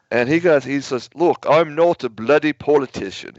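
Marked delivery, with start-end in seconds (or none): 1.2-3.3 imitating a British man's protest; British accent. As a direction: put on a light British accent, slightly raised. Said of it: "he said in his, in his British accent".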